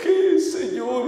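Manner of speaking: slow, drawn-out pleading; mildly anguished retold plea, drawing out the questions. Left-behind believer questioning the Lord, retold anguished plea.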